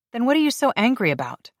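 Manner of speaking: loud, high demanding question. Acted. Grace confronts angry Adair.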